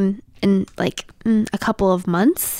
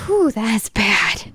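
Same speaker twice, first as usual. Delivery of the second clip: disgusted; much slower than usual. Real, not acted. Smelling the dog's fart.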